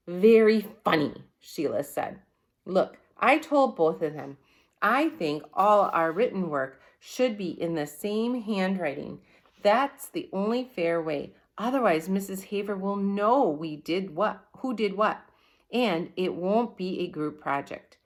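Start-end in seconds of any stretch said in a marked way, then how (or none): 0.1-1.2 sarcastic. Acted. Sheila sarcastic retort. 2.7-18.0 bossy Sheila. Acted. Sheila voiced in story.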